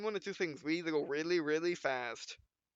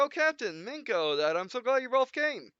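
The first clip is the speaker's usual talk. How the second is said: lightly higher, eager Alicia; Alicia voiced; 6 semitones higher, 3 dB louder than usual. Alicia greets the captain and Minko, lightly higher and eager. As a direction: gush at the crew a bit higher.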